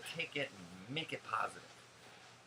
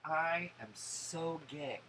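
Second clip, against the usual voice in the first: 1 sassy reply; 4 semitones higher, slower than usual. Retold or imitated. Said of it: "I was like".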